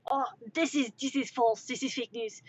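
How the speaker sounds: lightly protesting mock French accent; fake French accent. Accused smuggler denying the charge, fake French accent. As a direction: dismiss it in a bad French accent. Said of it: "my attempt at a French accent".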